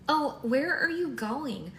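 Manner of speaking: high, loud, drawn-out call. A narrator's reading. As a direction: call after someone who is leaving. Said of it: "Maddie called out to her".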